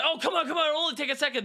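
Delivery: high, sugary salesman pitch; pushy vacuum salesman. Retold or imitated. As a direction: ham up a nineties door-to-door seller. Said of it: "they'd be like".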